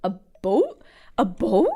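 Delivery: "a boat?" with a long round o and questioning rise; Canadian "about". Retold or imitated. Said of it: "say more of a".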